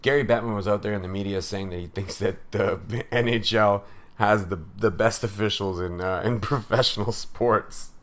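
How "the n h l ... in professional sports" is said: barely holding back laughter. Real, not acted. Podcast host mocking a league boss's claim, trying not to laugh. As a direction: chuckle breaking into the words. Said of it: "I can't even say that without laughing".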